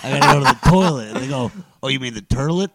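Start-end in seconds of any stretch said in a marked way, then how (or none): 1.8-2.7 Brooklynese. Retold or imitated. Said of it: "They do that always with the er".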